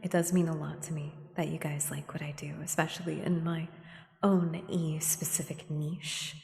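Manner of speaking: whispered, choked-up thanks; real emotion under a whisper. Real, not acted. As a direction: hold back tears while whispering thanks. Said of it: "Sorry, I'm getting choked up".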